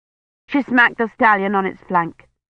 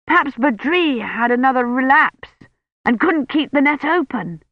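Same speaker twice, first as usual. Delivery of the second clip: excited more than scared; 7 semitones higher than usual. Acted. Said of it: "sounding more excited than scared".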